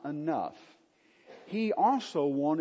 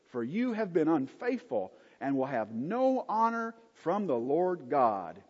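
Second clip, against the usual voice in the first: stern rebuke; 5 semitones higher than usual. Acted. Priests rebuke the king Uzziah.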